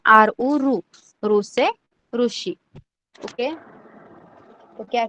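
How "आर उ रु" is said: आर, उ, then रु as one sound; spelled-out pronunciation. Shown as a demonstration. Teacher showing how रु is pronounced, spelled out. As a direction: spell आर उ and blend to रु. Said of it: "रु को कैसे pronounce करना है".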